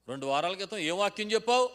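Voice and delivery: a wife's pointed challenge; serious. Retold or imitated. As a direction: demand it loud and high, dead serious. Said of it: "అందంట సీరియస్గా".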